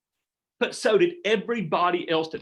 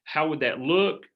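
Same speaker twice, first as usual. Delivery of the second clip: gentle coaching question; slower than usual. Shown as a demonstration. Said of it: "I went to the visual".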